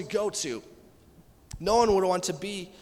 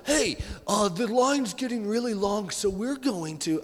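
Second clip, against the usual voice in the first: lightly voiced event staffer, a touch silly; a hint of a silly staffer voice; goofy put-on voice. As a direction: mimic the guy directing the line in a funny voice. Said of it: "I shouldn't use that voice".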